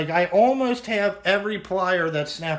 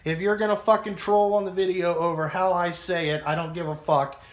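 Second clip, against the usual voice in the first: mildly fed-up, defensive rant; real, sweary grumbling rant; irritated rant. Real, not acted. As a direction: push back at nitpicking commenters, emphatic then dropping off. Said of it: "Sorry, that was my rant".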